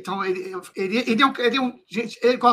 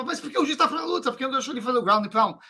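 confused viewer; 5 semitones higher, much faster than usual. Retold or imitated. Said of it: "a pessoa assiste e não entende".

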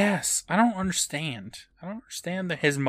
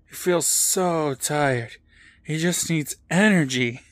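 tired mask voice; 3 semitones higher than usual. Retold or imitated. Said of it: "and Steve says".

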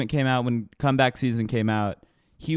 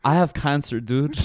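lightly imitated dopey Canadian accent; Spinner, dumb Canadian voice. TV teen revealing his illness to a friend, mock Canadian accent. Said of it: "this fucking dumbass Canadian voice where he's like".

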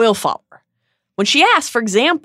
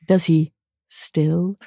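disbelieving Snape; 3 semitones lower, slower than usual. Acted. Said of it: "his voice delicately inflected to suggest his disbelief".

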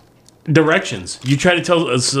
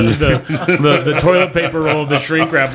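ordinary delivery

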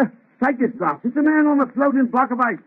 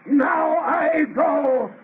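slow parting threat; 2 semitones higher, slower than usual. Acted.

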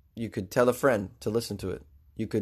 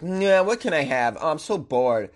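bored pop star; 3 semitones higher than usual. Retold or imitated. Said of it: "they're like".

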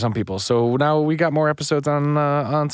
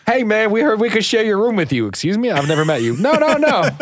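acted dialogue; 8 semitones higher, 3 dB louder than usual. Acted exchange with Dave.

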